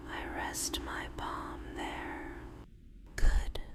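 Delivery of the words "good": whispered praise. Acted. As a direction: breathe it out as gentle praise. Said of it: "I whisper".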